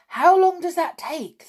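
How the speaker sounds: keen to learn; eager question. A narrator's reading. Witches to their leader, eager question. They asked her.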